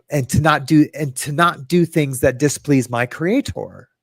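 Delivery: lightly hammed-up holy voice; mock solemn. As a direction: intone it like a pious sermon. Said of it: "I don't know why I'm saying it like that".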